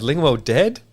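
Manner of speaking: high, loud Homer question; Homer asking. Retold or imitated. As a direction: ask it like a dim, stunned Homer. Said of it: "He goes".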